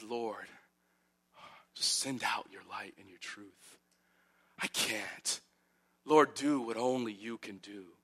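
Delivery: soft, hushed prayer to the Lord; quiet plea. Acted. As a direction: pray it softly, as if out of strength. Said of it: "And he says".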